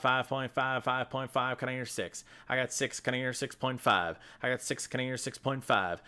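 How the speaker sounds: fast, rhythmic auction calling; auctioneer. Pretend. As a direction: rattle off bids like an auctioneer. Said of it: "Am I doing a good impression".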